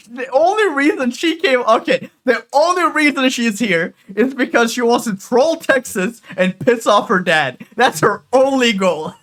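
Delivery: loud, high and laughing, half in disbelief; excited laughing rant. Real, not acted. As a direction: blurt it out between laughs. Laughing rant about her trolling.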